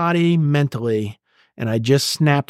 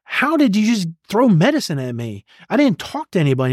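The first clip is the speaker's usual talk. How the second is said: retold indignant protest, pitched up; getting mad; 5 semitones higher than usual. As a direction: replay an angry challenge, voice rising in disbelief. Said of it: "And I'm getting mad".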